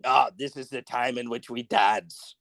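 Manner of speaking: put-on deadpan German-accent skit quote; Sprockets host. German host announcing the dance, lightly mimicked deadpan voice. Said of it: "the S N L skit Sprockets".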